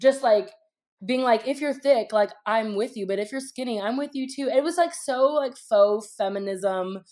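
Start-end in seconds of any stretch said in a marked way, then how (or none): 1.5-4.5 a light imitation of a Jamaican accent; mock Jamaican accent. Mocking a celebrity's dancehall remake in a light Jamaican accent. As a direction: parody a put-on Jamaican accent, half-hearted. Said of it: "in this crazy Jamaican accent".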